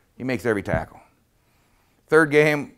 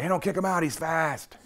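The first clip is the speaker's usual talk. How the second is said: hammed-up objection, voice jumping up high; mock protest; 7 semitones higher, 5 dB quieter than usual. Coach stepping in for his fast kid at the office, mock protest.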